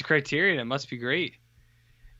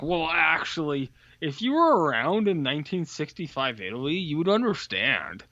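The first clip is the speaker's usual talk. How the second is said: higher-pitched imitation of a film defender; mock know-it-all; 4 semitones higher than usual. Film fans explaining to a doubter, mock know-it-all. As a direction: correct them like a pedantic fan. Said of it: "I know there's people who's like".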